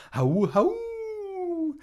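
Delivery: high double wolf howl. Acted. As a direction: howl twice like wolves. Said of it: "I heard two howls together".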